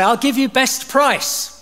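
high, slow, far-off sales voice; imitated souk trader offering a deal; trader's pitch. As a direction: dangle the bargain slowly. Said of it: "he would say".

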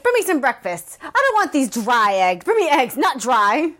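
whiny princess ordering breakfast; imitating a bratty demand. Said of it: "And then she's like".

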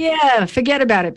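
put-on a jokey stereotyped New York accent, pitched a bit up; lightly hammed New York accent, tossed off for laughs; mock New York accent. Host mocking what people expect New Yorkers to sound like, light New York accent. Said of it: "where we talk like this".

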